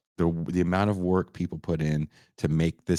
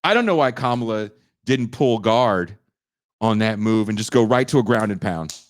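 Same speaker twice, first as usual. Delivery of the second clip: UFC-style debate talk; 4 dB louder than usual. Acted. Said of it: "like it's a U F C fight".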